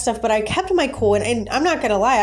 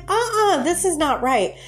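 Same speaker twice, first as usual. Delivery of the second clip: indignant; 9 semitones higher than usual. Retold or imitated. Refusing unfair store policy.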